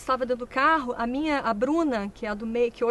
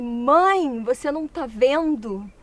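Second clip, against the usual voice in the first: imitating a frightened child; 3 semitones higher, 3 dB louder, slower than usual. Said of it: "ela falou pra mim assim".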